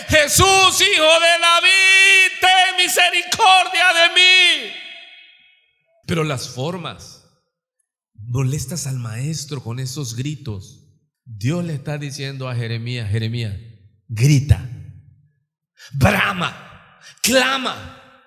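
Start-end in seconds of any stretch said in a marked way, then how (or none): 0.1-4.7 shouting louder. Acted. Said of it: "Gritaba más fuerte". 13.1-18.2 urging to cry out. Acted. Dios manda a Jeremías clamar.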